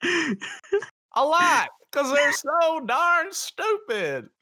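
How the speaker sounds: high, slow goofy cartoon voice; silly joke voice. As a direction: play it like a dopey cartoon.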